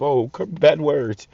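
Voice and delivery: high, slow mock-prim gasp over bad words; mocking prissy voice. Vlogger mocking easily offended viewers, high, slow prissy voice. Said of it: "If you still in this state of mind of".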